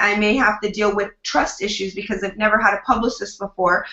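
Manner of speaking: ordinary talk, nothing marked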